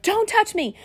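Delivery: high snapping retort; a sharp high don't touch me; fussing. Retold or imitated. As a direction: push him away with the words. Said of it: "when I would fuss at him and slap him back".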